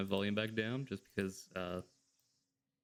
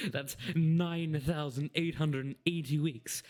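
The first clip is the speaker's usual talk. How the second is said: mock pompous counting; 3 semitones higher, slower than usual. Reading Whisper's counting dialogue.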